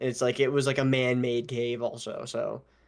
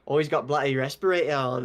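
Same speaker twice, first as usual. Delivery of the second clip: a hint of British, "bloody" leaned on; mock Brit remark; British accent; 4 dB louder than usual. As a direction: slip into a light British voice. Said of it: "I went British".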